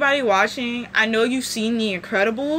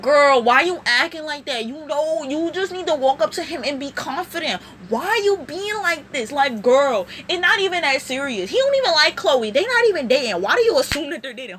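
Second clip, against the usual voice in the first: light put-on New York Jersey accent; a hint of a sassy Jersey accent, played for laughs; ratchet Jersey accent. Friend coaching Marinette, in a mock Jersey accent. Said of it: "the most ratchet, like, New York, Jersey accent ever".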